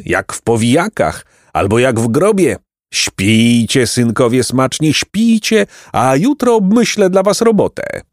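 mock lullaby from a monster; gloating monster. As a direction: croon a taunting goodnight, pitch swooping up. Potwór układa chłopców do snu. (drwiąca kołysanka potwora)

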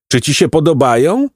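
high-pitched, lightly neighed question; a hint of a whinny, showing off captives; neighing monster. A narrator's reading. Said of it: "on rżał". (wyższy, lekko rżący głos potwora)

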